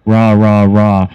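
low, half-hearted imitated horror noise; low sulky chant of rah; pouting "rah rah". Freddy's noise returns while pouting.

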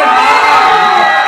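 ordinary talk

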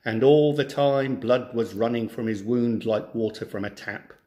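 clear, lively storybook reading; story narration. Acted. Teacher reads a folk tale to schoolchildren, storybook narration. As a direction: read the tale to a class of children.

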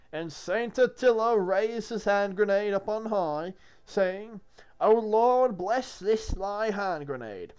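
slow, solemn biblical recital; scripture reading. Acted. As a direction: intone it like a sermon.

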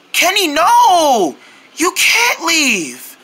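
slow, dismayed plea; drawn-out protest. Acted. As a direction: stretch it out in dismay. Begging friend not to leave.

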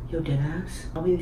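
speaking through fingers; muffled by hand; hand over mouth. Real, not acted. Seen 0: Boy's fingers cover mouth early, then move to cheek, mouth uncovered.

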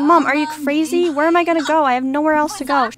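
put-on a kicked-out teen begging her mom in disbelief; panicked daughter. Daughter pleading with mom after being told to leave, desperate. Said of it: "She's like".

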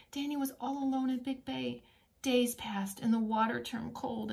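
lively storybook reading voice; reading to children. A narrator's reading. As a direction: read it like a bedtime picture book.

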